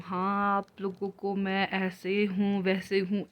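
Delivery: slow, mildly affected mock-formal phrasing; fake put-on talk. Vlogger mocking how she refuses to fake it, lightly affected. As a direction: mimic a put-on, artificial way of talking to viewers. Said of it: "मैं कोई बनावटी चीज़ नहीं बोलती".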